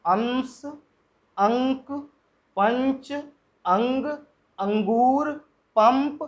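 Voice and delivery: अंश अंक पंच अंग अंगूर पंप with a clear nasal consonant through the nose; pronunciation demo. Shown as a demonstration. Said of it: "अब इसमें देखिए". (अनुस्वार वाले शब्दों का नासिक उच्चारण)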